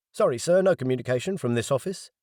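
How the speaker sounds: curt officer refusing. Acted. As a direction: politely shut him down.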